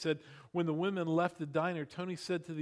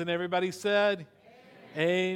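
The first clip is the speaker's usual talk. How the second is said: call for amen; 6 dB louder than usual. Acted. Calls congregation to respond.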